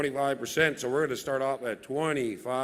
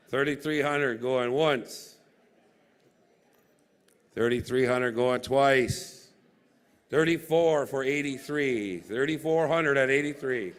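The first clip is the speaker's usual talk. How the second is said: auctioneer call. Real, not acted. Auction call going once twice.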